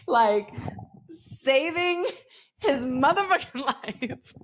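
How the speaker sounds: slow, laughing through the words. Real, not acted. Mom laughing about saving her son's life.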